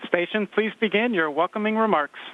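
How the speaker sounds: space radio beeps. Real, not acted. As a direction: speak over a space radio link. Ground calls station over radio.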